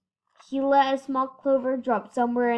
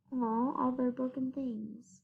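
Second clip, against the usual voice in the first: whisper; 7 dB quieter than usual. A narrator's reading. Narrator hushes.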